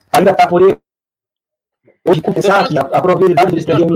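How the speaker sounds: choppy, glitchy call audio; breaking up. Real, not acted. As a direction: voice cutting out on a bad connection. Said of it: "pra mim tá picotando muito".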